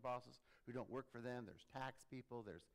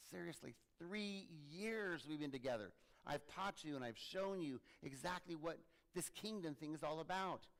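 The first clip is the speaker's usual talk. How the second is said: exasperated Jesus; 4 semitones higher than usual. Acted. Jesus to quarrelling disciples, mildly exasperated. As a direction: plead with them, fed up but fond. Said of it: "I should imagine that's how Jesus is".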